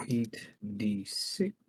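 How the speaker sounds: whispered dice roll. Real, not acted. Player whispering his dice roll to himself. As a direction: breathe the numbers under your breath.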